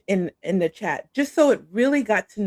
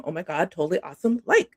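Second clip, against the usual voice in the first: put-on valley girl voice; 3 semitones lower, faster than usual. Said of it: "That's me".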